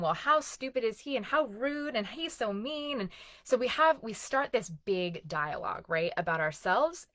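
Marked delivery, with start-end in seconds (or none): 0.0-3.0 higher, scornful judging of him. Retold or imitated. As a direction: sneer at him, pitch up. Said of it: "judgment of him".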